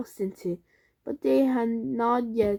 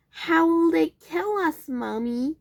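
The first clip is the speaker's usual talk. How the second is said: put-on scared child; 7 semitones higher, 3 dB louder than usual. A narrator's reading. Frightened child asks mother.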